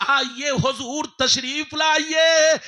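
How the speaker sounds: slow full-voiced call, लाइए held long; shouted welcome. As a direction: throw the invitation out to the crowd. Welcome repeated, second louder.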